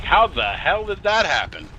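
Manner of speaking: high, shocked disbelief; incredulous. Retold or imitated. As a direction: voice jumps way up in disbelief. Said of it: "and I'm like".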